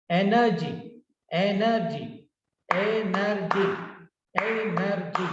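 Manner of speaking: "Energy" in three distinct beats; syllable by syllable. Shown as a demonstration. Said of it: "Three syllables".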